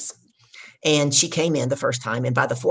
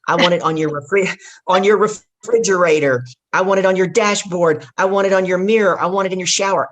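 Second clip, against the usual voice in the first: raised, louder insisting voice; loud and firm coaching; emphatic insistence; 4 semitones higher, 6 dB louder than usual. Retold or imitated. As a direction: drive it home, building with each place. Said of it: "I said".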